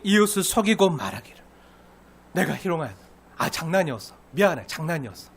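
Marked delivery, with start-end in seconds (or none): 2.3-5.3 low, soft mock brush-off; offhand excuse. Offender excusing himself to the neighbour, offhand. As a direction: toss off a casual apology.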